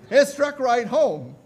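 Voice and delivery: loud, high, slow punch line; punchy retold reaction; emphatic quote. Preacher quoting Spurgeon's rueful recollection.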